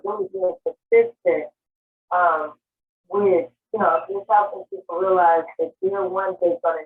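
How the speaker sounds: on speakerphone. Real, not acted. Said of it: "I can't really pick up what you said".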